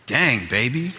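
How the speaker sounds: hammed-up adoring wife voice, drawn out; imagined admiring wife. Husband showing wife what to say, hammed-up adoring voice. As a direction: put on the swooning praise voice. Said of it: "she didn't use the voice".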